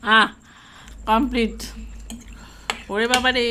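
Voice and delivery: chewing food while talking; words blurred by chewing; mouth full. Real, not acted. Seen 0: all three chew food at the table; speaker unclear.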